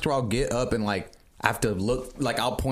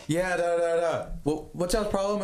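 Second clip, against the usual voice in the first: mock worker voice; 5 semitones higher than usual. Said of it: "he starts talking about".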